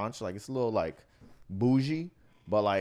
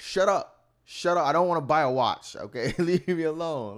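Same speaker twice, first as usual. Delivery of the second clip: much higher, louder hammed-up shout; mock yell; 7 semitones higher, 6 dB louder than usual. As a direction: yell at the seller to shut up, played for laughs. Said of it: "I'm like".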